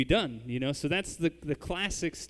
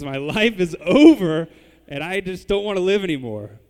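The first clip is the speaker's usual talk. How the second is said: sulking preteen without her phone, melodramatic wail; dramatic preteen; 3 semitones higher, 12 dB louder than usual. Retold or imitated. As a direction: wail like a kid who lost her phone. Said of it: "like an eleven-year-old girl that you've taken their cell phone away".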